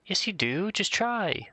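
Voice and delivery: high-pitched little cheerleading voice; encouraging friend. Acted. Imaginary friend urging doubtful Oliver to try, high encouragement.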